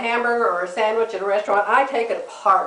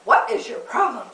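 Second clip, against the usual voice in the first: dog's indignant voice. Retold or imitated. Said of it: "she's like".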